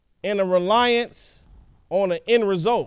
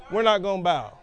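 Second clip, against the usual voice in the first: defiant shout; 2 semitones lower than usual. Retold or imitated. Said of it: "took a bold stance".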